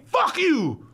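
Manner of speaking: high, wild yell in bursts; crazed shouting. Retold or imitated. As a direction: imitate a crazed man yelling abuse. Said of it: "wildly swinging the crutch at the glass".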